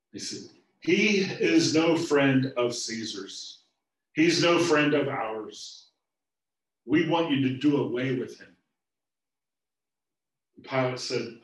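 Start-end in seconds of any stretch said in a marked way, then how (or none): 0.8-8.6 loud, slow, insistent demand. Acted. Chief priests urging Pilate to do away with Jesus, loud and slow. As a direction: press the governor to kill him.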